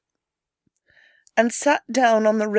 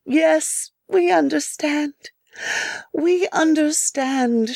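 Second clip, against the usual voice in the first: tender; 5 semitones higher, slower than usual. Acted. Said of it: "she thought".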